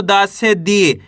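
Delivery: slow, with a long ee in दी; drawn-out syllable. Shown as a demonstration. Teacher joining vowel to consonant, दी drawn out. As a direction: stretch दी at the end. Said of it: "खींच के इसका उच्चारण करना है".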